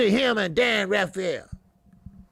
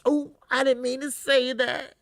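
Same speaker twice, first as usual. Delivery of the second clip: mock innocent excuse; 3 semitones higher than usual. Mocking an insincere apology.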